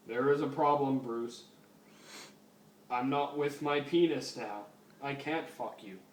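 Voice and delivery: lightly voiced robot cop, even pitch; RoboCop. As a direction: do a bad stiff robot officer. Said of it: "That's the worst fucking RoboCop voice ever".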